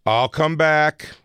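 high, loud, slow coy promise; drawn-out teasing girl voice; imitating a girl. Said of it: "when they go".

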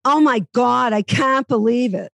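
Boston accent, "can't" said far back in the nose; Boston accent demo. Shown as a demonstration. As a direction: teach the Boston "can't" with a back nasal vowel. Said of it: "it's way back in the nasal".

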